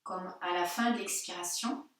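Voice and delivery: calm yoga-teacher guidance with long pauses; unhurried meditation voice, phrase by phrase; guided meditation. Real, not acted. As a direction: guide them gently into body and breath, leaving silences. Leads a guided breathing meditation.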